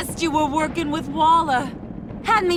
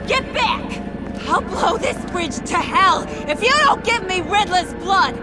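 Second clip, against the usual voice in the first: threatening yell; 3 semitones higher than usual. Acted. Threatening to blow up bridge.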